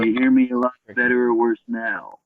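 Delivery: better mic. Real, not acted. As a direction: voice through a better microphone. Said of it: "Better now".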